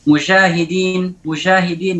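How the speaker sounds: "Musyahidin" with j loosened to a flowing zh; jim blended with shin. Shown as a demonstration. Teacher shows students how it is misread, fricative jim. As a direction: draw a hushing sound through the j of "Musyahidin". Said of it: "dibaca seperti itu".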